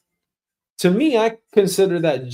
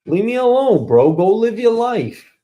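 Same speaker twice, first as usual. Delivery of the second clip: higher, fed-up plea to be left alone; exasperated rant; 5 semitones higher than usual. Acted. To the nosy boss, a higher exasperated leave me alone. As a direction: shoo him off, fed up.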